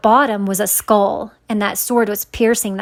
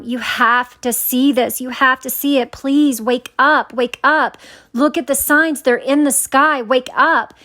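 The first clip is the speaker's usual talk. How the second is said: retold weeping plea; 3 semitones higher than usual. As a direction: beg insistently, only lightly tearful. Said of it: "weeping and crying".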